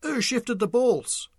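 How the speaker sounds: high, slow indignant question; suspicious question. A narrator's reading. White man back from the toilet questioning the table, high and slow. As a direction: demand an answer, drawn out. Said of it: "and asked".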